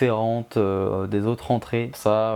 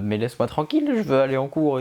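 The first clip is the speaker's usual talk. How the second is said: higher-pitched mock impatient kid; eager kid imitation; 4 semitones higher, faster than usual. Kid pushing parents away to get to class, mock impatient. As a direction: imitate a child shaking off parents, voice jumping up. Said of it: "ceux qui avaient hâte de partir des jambes de leurs parents".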